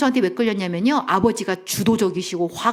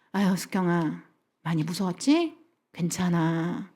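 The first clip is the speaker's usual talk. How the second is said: lower, gentle soothing voice; tender reassurance; 3 semitones lower, 4 dB quieter than usual. Acted. Parent comforting a scared little girl, tender reassurance. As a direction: comfort a frightened child softly.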